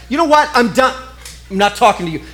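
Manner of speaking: hammed-up huffy outburst; mock angry wife. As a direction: play the wife fed up and done talking. Acted quarrel, wife gets mad.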